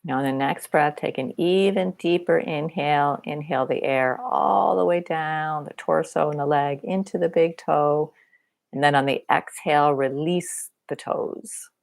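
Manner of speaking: unhurried body-scan guidance with long pauses; guided meditation. Real, not acted. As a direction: guide them gently through a body scan.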